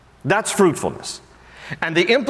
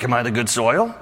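anxious believer; 2 semitones higher than usual. Retold or imitated. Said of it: "then try to think".

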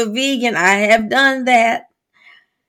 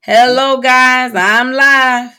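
a hint of a livestream host greeting; mock her endless hellos; lightly voiced host welcoming each viewer; imitating Freddie Jean; 2 semitones higher, 3 dB louder than usual. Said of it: "She never makes it past every single person that joins".

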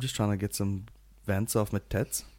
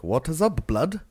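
higher-pitched mock London roadman; roadman impression; 6 semitones higher, slower than usual. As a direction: imitate a street roadman's greeting. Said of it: "the Roadman one where he's all like".

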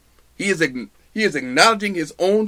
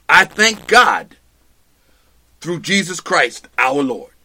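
grateful; 2 semitones lower than usual. Retold or imitated. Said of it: "Paul answers the question".

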